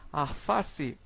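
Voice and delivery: arface with r in place of l; rural rotacism. Shown as a demonstration. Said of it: "muita gente que fala assim".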